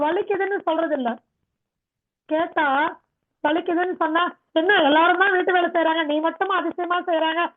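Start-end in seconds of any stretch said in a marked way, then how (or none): 4.6-7.4 imitating a dismissive relative; mocking family retort. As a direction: throw it back as the family scoffs. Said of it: "அப்படின்னு வீட்டுல சொல்றாங்க".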